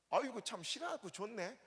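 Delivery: polite Chungcheong dodge. Retold or imitated. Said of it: "비싸면 어떻게 해요".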